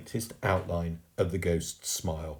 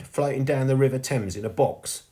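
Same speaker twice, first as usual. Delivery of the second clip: higher, louder exclamation from the sweep; astonished exclamation; 6 semitones higher, 5 dB louder than usual. A narrator's reading. Sweep amazed at his own past, exclaiming. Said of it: "Soot exclaimed".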